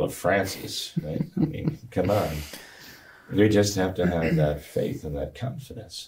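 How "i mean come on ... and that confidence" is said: hoarse, gravelly speaking voice. Real, not acted. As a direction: speak through a gravelly, recovering throat. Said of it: "putting up with my gravelly voice here".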